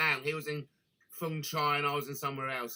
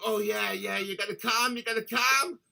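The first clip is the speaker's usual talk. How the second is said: higher, hammed-up breathy lover imitation; imitating a lover in bed, higher and louder; mocking the lover; 7 semitones higher, 5 dB louder than usual. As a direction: send up the lady boy's bedroom talk. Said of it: "he was like".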